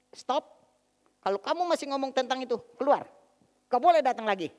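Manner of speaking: imitating mama ordering them out, voice up high and loud; angry mother. Mother ordering the preaching couple out, mock furious shout. Mother throws out evangelizing son-in-law.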